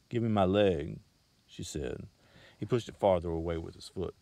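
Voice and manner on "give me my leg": louder, firm demand. A narrator's reading. Girl demanding her wooden leg back, louder. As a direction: insist on getting it back.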